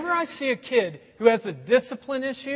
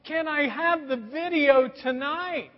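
put-on sweet child plea; 6 semitones higher, slower than usual. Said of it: "she's like".

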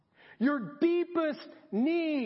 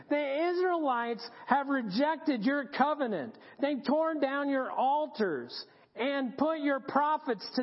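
mildly whiny acted grievance; 2 semitones higher than usual. Elijah listing his troubles to God, mildly whiny. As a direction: plead your case with a touch of whine. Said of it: "The whiny voice".

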